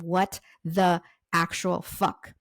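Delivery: slow, emphatic exasperation; exasperated outburst, retold without yelling. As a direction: replay your frustration word by slow word. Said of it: "I've been yelling, I've been frustrated".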